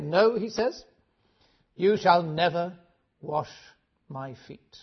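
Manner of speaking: loud, firm refusal, slowing on never; Peter's firm no. Acted. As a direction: refuse him flatly as Peter. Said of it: "Peter makes it quite clear".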